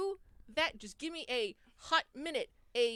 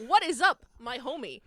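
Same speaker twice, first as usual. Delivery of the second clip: Steve Buscemi fixer; 7 dB louder than usual. Acted. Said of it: "trying to be Steve Buscemi as a fixer".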